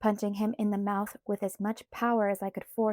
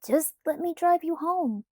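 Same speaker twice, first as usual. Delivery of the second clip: insisting; 7 semitones higher, 4 dB louder than usual. A narrator's reading. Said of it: "Jacob insisted".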